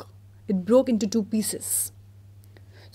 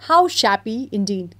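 councillors agreeing; 5 dB louder than usual. Acted. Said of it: "cried the town councillors".

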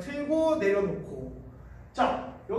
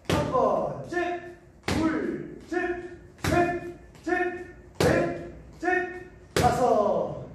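barking gym coach; 6 semitones higher, much slower than usual. Real, not acted. Coach calling out punch count.

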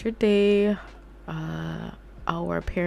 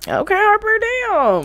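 higher, louder, slow okay; stunned drawn-out reaction; 14 semitones higher, 8 dB louder, slower than usual. Real, not acted. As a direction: drag it out, scandalised. Shocked at sims.

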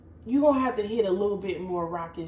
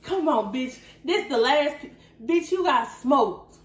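higher mock taunt, drawing out the last word; trash-talking taunt; 4 semitones higher, slower than usual. Rival girl trash-talks the runner she just beat, mock taunting. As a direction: taunt like a rival strolling past the loser.

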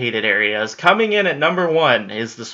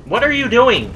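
high, loud baffled cry at the gargoyle; incredulous yelp; 11 semitones higher, 7 dB louder than usual. Real, not acted. Player yelps at a baffling gargoyle, high and loud. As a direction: shout it in disbelief.

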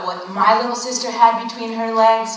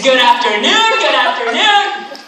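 hearty greeting; 3 semitones higher, 5 dB louder than usual. Acted. Mock greeting amid audience laughter.

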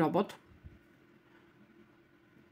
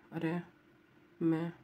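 normal talking voice

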